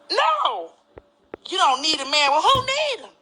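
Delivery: mocking mama. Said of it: "she done taught me".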